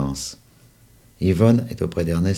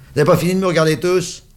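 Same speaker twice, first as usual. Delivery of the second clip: high fast angry shout; exasperated boy yelling at the staring kids; furious outburst; 12 semitones higher, 6 dB louder, faster than usual. Acted. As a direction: lash out at the whole table. Boy explodes at stares.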